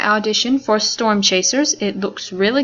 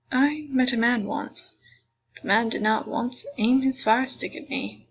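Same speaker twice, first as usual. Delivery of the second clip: put-on old lady voice. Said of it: "put on my old lady voice".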